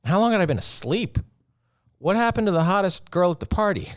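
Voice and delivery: baffled, as if waking up in another world; retelling his shock at his girlfriend's sudden turn; incredulous disbelief. Retold or imitated. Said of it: "And I'm like".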